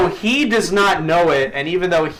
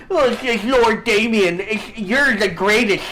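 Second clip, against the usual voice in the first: fawning lisp, a little higher; 5 semitones higher than usual. Retold or imitated. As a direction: gush like a sycophantic sidekick with a lisp. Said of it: "in the dub they talk with a lisp".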